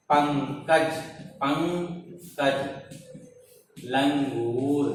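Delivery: पंकज and लंगूर drawn out, the dot sounded through the nose; nasal anusvara. Shown as a demonstration. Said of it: "इसका उच्चारण नाक से होता है". (पंकज, लंगूर में अनुस्वार नाक से, धीरे-धीरे)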